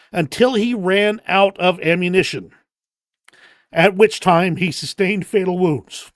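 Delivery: formal, measured tribute read aloud; solemn citation reading. Acted. Reads a Medal of Honor citation.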